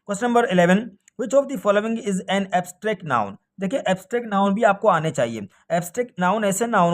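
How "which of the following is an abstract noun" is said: very slow, deliberate question; teacher slowly reading a grammar question aloud. Shown as a demonstration. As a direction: stretch each word of the question.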